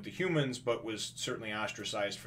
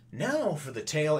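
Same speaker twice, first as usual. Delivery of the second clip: lifted, louder announcer opening; narrator announcement; 5 semitones higher, 4 dB louder than usual. Acted. Narrator breaking into the scene, raised announcer voice. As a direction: announce the tale with a raised pitch. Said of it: "narrator coming in and going".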